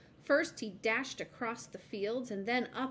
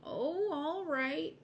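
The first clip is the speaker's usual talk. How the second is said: high, slow, resigned squirrel; 7 semitones higher, much slower than usual. A narrator's reading. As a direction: give in slowly. Mister Squirrel agreeing.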